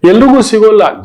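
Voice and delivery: loud, high cry on ಎಲ್ರಿಗೂ; emphatic outcry. Real, not acted. Preacher tells listeners not everyone gets this, loud. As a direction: ring it out to the whole hall. Preacher stresses a hard truth.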